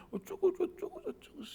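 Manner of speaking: mock a kid's excuses; mock child babble. Son making excuses to dad, mock babble.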